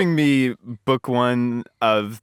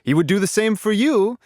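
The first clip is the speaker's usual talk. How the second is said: higher, overdone persuading; laying it on thick; 6 semitones higher than usual. Retold or imitated. Bartimaeus urging Kitty to flee, laid on thick. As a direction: push her hard, mock earnest. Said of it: "lay it on a little thick".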